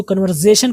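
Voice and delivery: कन्वर्सेशन with "z" for s; common mispronunciation. Shown as a demonstration. Teacher quoting people's mistake, कन्वर्सेशन with "z". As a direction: say कन्वर्सेशन as "kan-var-ZAY-shan". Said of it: "लोग इसमें भी गलती करते हैं".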